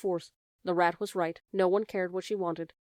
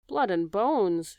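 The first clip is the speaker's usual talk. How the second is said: shouted; 4 dB louder, much slower than usual. Acted. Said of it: "shouted another".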